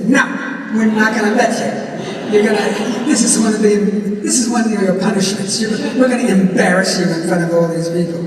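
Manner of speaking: lightly voiced taunting inner critic; a hint of a nagging tormentor; little inner voice. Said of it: "a little voice in my head says".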